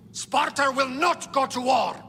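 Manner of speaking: forceful refusal. Acted. Angry refusal in heated council.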